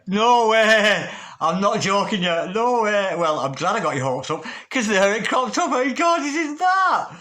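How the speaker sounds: high, loud, thrilled disbelief; can't believe the card came up; giddy excitement. Real, not acted. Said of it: "I'm getting giddy".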